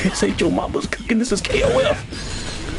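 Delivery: high-pitched mock scolding; mocking squeaky impression; mimicked taunt. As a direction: put on a high, incredulous voice.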